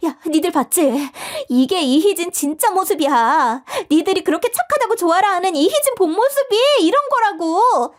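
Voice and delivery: high, pushy call to the classmates; shrill accusation. Acted. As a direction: demand they all see it. Rallying classmates against her.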